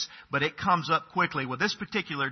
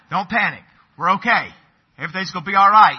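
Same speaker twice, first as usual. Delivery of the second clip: forced calm reassurance; 7 dB louder, faster than usual. Retold or imitated. Dad calming kids in storm.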